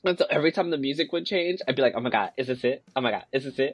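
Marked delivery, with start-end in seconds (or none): 2.0-3.7 softer, nervous repeat; hushed anxious question. Retold or imitated. Player nervously asking at each music change, hushed. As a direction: hold your breath, is this it. Anxiously waiting while playing.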